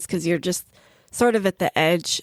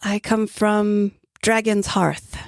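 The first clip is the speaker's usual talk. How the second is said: put-on old traveler; 3 semitones higher than usual. Razul answers the kobold.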